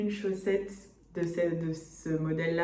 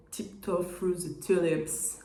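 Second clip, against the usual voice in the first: English title in French accent; slower than usual. Shown as a demonstration. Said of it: "Avec mon accent qui s'améliore".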